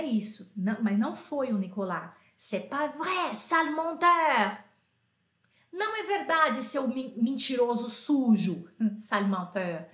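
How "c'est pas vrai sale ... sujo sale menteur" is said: mock angry kid. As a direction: protest like a wronged kid. Kid denies, calls other liar. (criança indignada, levemente encenada)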